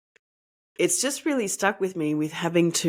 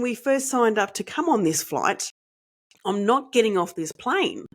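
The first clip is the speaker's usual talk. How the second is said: higher, insistent retold rant at the flight attendant; retold irate outburst; 5 semitones higher than usual. Mother to flight attendant, refusing to leave the plane, irate and higher. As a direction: firmly restate the demands, half acting out the anger. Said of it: "I was quite getting irate".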